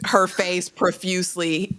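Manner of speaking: slow, drawn-out scene narration; dramatic narration. A narrator's reading. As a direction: set the tearful scene word by word.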